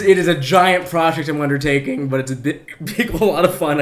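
talking through hiccups; hiccuping between words. Real, not acted. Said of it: "I can't stop hiccuping".

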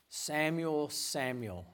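soft, falling double call of the name; a hint of a tender God calling his servant; intimate call. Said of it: "that intimacy that comes when our name is".

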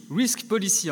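risk policy said with an English accent, a rolled French r on risk; the preacher tries the English term in his English accent. Shown as a demonstration. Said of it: "mon super accent anglais". (risk policy dit avec l'accent anglais, r français roulé)

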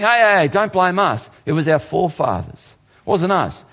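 mock the excuse-makers, half-hearted; a hint of a petulant crowd; people shifting blame. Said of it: "and the people are saying".

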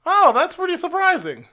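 high, fluttery mock elderly lady voice; imitating a high-pitched elderly white lady; old lady imitation. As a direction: squeak it out like a sweet old grandma.

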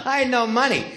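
words spilling out through real laughter; laughing. Real, not acted. To the host about the broken car, laughing. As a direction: laugh your way through the line.

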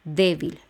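Débil with the weight on DÉ; stress on E. Shown as a demonstration. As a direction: lean on the first syllable of Débil. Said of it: "el acento va en la E".

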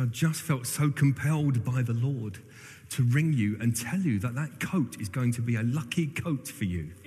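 imitated West Country accent, slightly lifted. Friend passing on a prophetic word by phone, West Country accent. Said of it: "in his best West Country accent".

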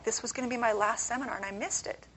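ordinary talk

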